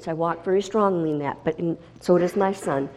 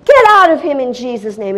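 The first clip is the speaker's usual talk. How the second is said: louder, higher command to cast out; commanding shout; 8 semitones higher, 10 dB louder than usual. Retold or imitated. Mother casting the demon out, loud commanding rebuke. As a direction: bark the command with full authority. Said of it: "And I'm saying".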